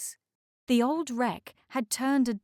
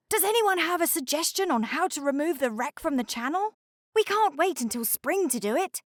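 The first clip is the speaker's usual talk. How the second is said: icebreaker character voice; 7 semitones higher, faster than usual. A narrator's reading. Snow icebreaker voice.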